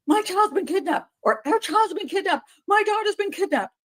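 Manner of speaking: "My" and "Our" hit high and hard; stress on my. Shown as a demonstration. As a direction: punch "My" and "Our" in "My child's been kidnapped". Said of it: "You say".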